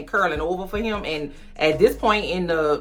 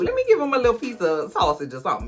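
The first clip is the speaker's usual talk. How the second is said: put-on very high baby-talk coo; cooing at a puppy. Felix pitying Oliver, cooing high like at a puppy. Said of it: "it's kinda like he, like".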